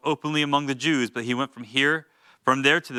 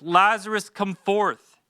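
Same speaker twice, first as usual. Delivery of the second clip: raised, ringing call; loud cry; 6 semitones higher, slower than usual. Acted. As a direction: call him out of the tomb. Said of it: "he cried out with a loud voice".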